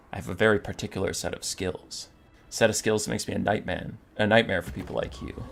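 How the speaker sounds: lightly acted low, quiet menace; understated tough-guy warning; mock menacing threat. Malagor threatens the ogre, movie parody.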